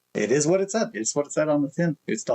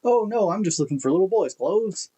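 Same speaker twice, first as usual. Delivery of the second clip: put-on higher, nervous drunk voice; awkward drunk reply; 8 semitones higher than usual. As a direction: blurt it out, trying to act normal. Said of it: "And I was like".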